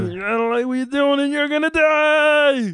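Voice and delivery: fast hero voice rising to a shout; Kermit the Frog voice. Acted. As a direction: rush it then yell the threat. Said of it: "I'm the same as Kermit the Frog voice".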